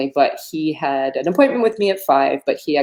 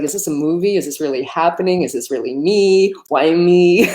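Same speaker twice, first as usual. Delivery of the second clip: teary. Real, not acted. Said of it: "I'm getting a little teary".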